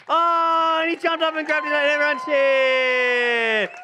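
high, loud, slow buildup; excited narration. Acted. Narrator telling children the man jumped up, excited. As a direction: celebrate the miracle.

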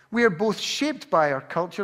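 ordinary talk

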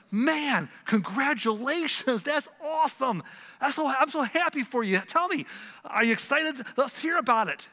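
high, loud, whooping enthusiasm; excited congratulations. Acted. Congratulating a coworker on the promotion, loudly thrilled. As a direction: celebrate their news with big, high energy.

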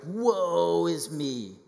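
melodramatic woe. Retold or imitated. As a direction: wail it like a tragic hero, overdone. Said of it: "you're like".

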